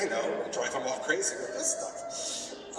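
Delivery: high, slow villainous plotting voice; mock-evil planner, pitched high; devious scheming. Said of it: "I was really devious".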